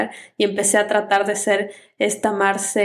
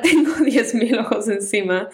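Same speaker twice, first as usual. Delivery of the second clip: laughing. Real, not acted. Laughing at her own math slip.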